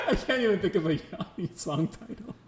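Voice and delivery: speaking through laughter; laughing. Real, not acted. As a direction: giggle while you say it. Cracking up over a musician.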